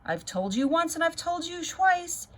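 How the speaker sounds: not so nice. A narrator's reading. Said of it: "in a voice not so nice".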